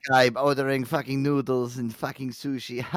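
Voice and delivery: mock Middle Eastern accent. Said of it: "did, like, a Middle Eastern accent to make fun".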